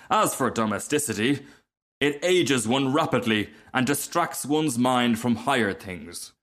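a touch of grand self-importance; lightly voiced haughty Rocket. Rocket boasting to the Duck, mildly conceited. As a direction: boast with mild lofty disdain.

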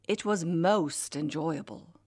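lightly imitated royal voice, slow and measured; a hint of the Queen, each word unhurried; quiet posh voice. The Queen telling Pauline about Ireland, in a mild posh voice. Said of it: "in that quiet but extraordinarily posh voice".

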